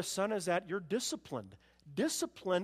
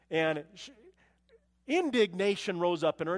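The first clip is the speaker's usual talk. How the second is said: ordinary talk, nothing marked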